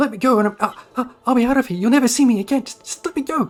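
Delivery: very high, loud, stammering, terrified pleading. Voicing a grappled creature begging to be released: terrified pleading. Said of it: "Sound a bit terrified there".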